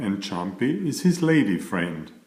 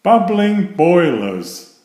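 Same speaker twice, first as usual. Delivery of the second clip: surprised exclamation; 8 semitones higher, 8 dB louder, slower than usual. Acted. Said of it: "looked at the cover of the book and gasped".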